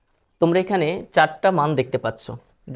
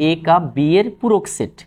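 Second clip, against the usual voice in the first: measured teacher's read-out; demonstrated reading; 3 dB louder than usual. Shown as a demonstration. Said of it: "আমরা এটাকে বলতে পারি".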